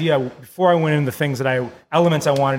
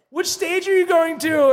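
put-on high, slow, airy party-girl voice; mock party girl; 14 semitones higher, slower than usual. The new bride asking about stages, high and airy. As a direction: ask it sweetly, not a care in the world. Imitating the girl after the wedding.

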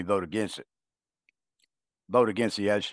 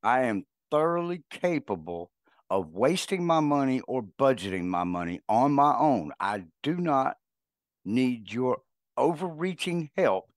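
indignant scolding; 4 semitones higher than usual. Retold or imitated. Telling off the bank.

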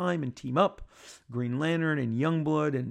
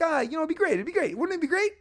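sheepish backpedal; faster than usual. Retold or imitated. Backpedaling after reading the room.

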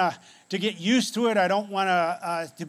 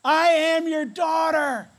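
loud, high, urgent cry; excited shouting; 8 semitones higher, 7 dB louder than usual. Retold or imitated. Adopted girl runs up to her mom, shouting. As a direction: shout it out with full force. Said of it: "she started shouting in Korean".

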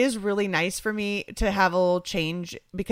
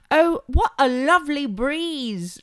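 a hint of a posh British lilt; lightly put-on British accent; playful fake British voice; mock British; 6 semitones higher, slower than usual. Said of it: "That was my terrible British impression".

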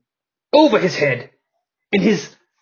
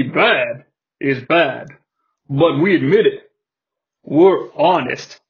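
Diamond Stud voice. Acted. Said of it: "The Diamond Stud speaks".

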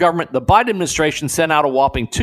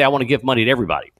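quick mock quote; 4 semitones lower, much faster than usual. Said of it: "it's very easy to say".

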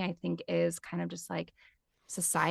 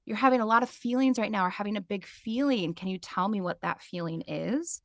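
put-on gentle toddler talk; 3 semitones higher than usual. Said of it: "very much like you would with a toddler".

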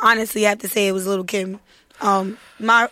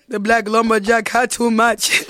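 imitating Belizean dad; slower than usual. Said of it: "to hear my pops say".

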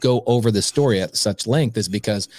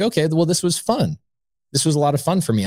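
higher, pleased thinking-aloud voice; mildly elated self-talk; 6 semitones higher than usual. Retold or imitated. New investor leaving a good meeting, retold pleased self-talk. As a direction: lift it lightly, retelling happy thoughts. Retelling his pleased thoughts afterwards.

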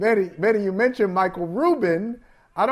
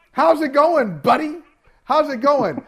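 mocking taunt; 2 semitones higher than usual. Real, not acted. Taunting Michael Smith.

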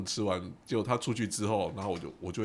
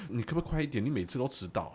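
impatient nagging; 4 semitones higher than usual. Retold or imitated. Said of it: "我就觉得很烦".

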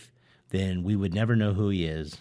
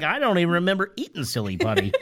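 laughing; 7 semitones higher, faster than usual. Retold or imitated. Joking about coughing up phlegm.

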